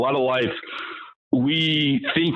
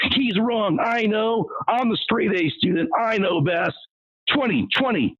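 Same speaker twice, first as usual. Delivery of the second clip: higher, smug straight A student voice; mocking know-it-all kids; 5 semitones higher than usual. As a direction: ape the kids who yell the wrong answer. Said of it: "yelling out twenty".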